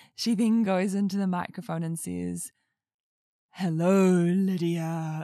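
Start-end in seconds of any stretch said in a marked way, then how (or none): 3.5-5.2 cheeky, teasing, deep mocking voice, one word drawn out. Retelling how mum spoke into the microphone: imitating a deep mocking voice. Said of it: "in a deep mocking voice".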